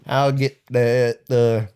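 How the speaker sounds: drawn-out redneck drawl; put-on redneck voice; redneck accent. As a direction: imitate a redneck, slow and stretched. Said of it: "like, a redneck voice".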